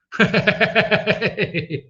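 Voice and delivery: high-pitched run of giggles; long staccato cackle of laughter. Real, not acted. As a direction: burst out in a high, rapid laugh. Trader breaks into laughter.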